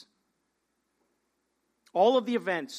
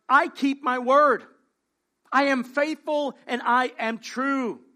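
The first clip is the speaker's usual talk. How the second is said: slow solemn voice of God; 4 semitones higher, 6 dB louder, slower than usual. Acted. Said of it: "He says to John".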